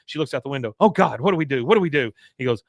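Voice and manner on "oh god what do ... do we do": louder, raised-pitch flustered cry; mock panic. Woman sees wife out the window, louder mock panic. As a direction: act out a fretful panic, pushed up and louder.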